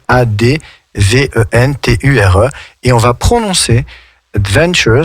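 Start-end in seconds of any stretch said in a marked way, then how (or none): 4.3-5.0 adventure with the stress punched on VEN, ad-VEN-ture; stress on second syllable. Shown as a demonstration. Teacher showing students where the stress falls in adventure, stressed VEN. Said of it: "accentuer la deuxième syllabe".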